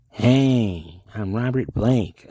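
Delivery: slow, loud put-on voice; a mock tough-guy self-introduction; Robert Blake impression. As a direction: drag it out like a gruff actor. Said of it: "Now you sound like David Lynch".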